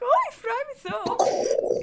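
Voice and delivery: high, slow gushing joy; exaggerated excitement. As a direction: gush about it, hammed-up. Excited about team trip.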